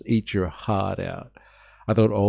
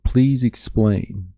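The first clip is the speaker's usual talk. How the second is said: Pauline impression; 3 semitones higher, much slower than usual. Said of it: "Pauline Hanson cartoons".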